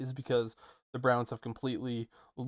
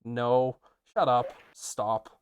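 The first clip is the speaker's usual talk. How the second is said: shocked disbelief; 5 dB louder, much slower than usual. Retold or imitated. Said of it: "going like".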